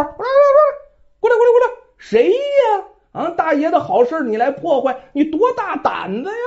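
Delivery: bandit shouting. Acted. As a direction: bellow for backup, then challenge. Bandit calls his gang. (强盗高声招呼同伙)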